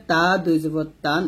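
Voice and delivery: তা and তান with a light, thin t and open a; plain light t in তা. Shown as a demonstration. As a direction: keep তান light on the tongue tip. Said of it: "তা এবং ত দুইটা কিন্তু এক হবে না".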